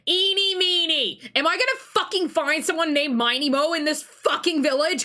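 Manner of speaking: "Eeny Meeny" stretched in a high, loud, incredulous cry; mock outrage. Player objects to the silly name, mock mad. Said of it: "I'm gonna be so fucking mad".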